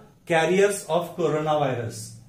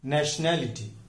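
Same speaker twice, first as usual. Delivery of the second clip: नेशनैलिटी as nash-NAL-i-ti, NAL leaned on; stress on NAL; 2 semitones lower than usual. Shown as a demonstration. Teacher showing the rule, stress on NAL. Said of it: "न्या पर stress आता है".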